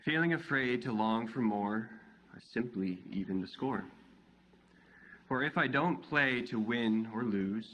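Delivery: measured poetry reading, a pause after each image; poem recitation. Acted. Poet reads their poem "What Is" to a live audience, measured recitation. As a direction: recite it line by line, each phrase falling away.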